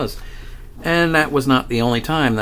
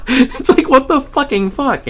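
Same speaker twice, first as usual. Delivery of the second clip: laughing through words; 5 dB louder than usual. Real, not acted. Laughing at own dying story.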